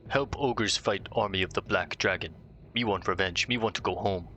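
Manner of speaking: lightly voiced dopey ogre; a hint of a dumb brute ogre. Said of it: "I'm sure he speaks like an ogre".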